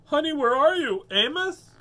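high, loud repeated calls; frantic-sounding high searching shouts; calling out. Acted. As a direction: holler for a missing dog. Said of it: "they're all calling for him".

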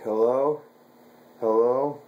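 loud, questioning hello into the mic; mic check call. Real, not acted. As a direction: call out to test if the mic picks you up. Testing new mic, calling out.

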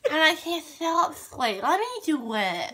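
talking with a swollen tongue; words slurred by a numb mouth. Real, not acted. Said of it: "My tongue is too fat".

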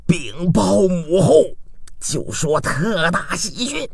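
slow, drawn-out gleeful announcement; overjoyed prince relaying great news; trembling with joy. A narrator's reading. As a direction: let the pitch climb high with elation. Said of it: "声音都发颤了".

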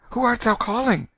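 loud, high haughty demand. A narrator's reading. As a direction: demand it like a prince. Prince demands answer.

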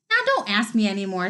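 gruff, lightly voiced giant; gruff Hagrid. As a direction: brush them off gruffly. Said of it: "said Hagrid gruffly".

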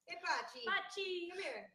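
hushed, coaxing the dog over; soft coaxing call. Real, not acted. Coaxing the shy dog to come, hushed. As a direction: coax the dog quietly.

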